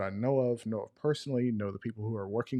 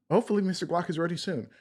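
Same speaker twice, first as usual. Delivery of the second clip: sarcastic; 7 semitones higher, faster than usual. Retold or imitated. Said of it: "And I was like".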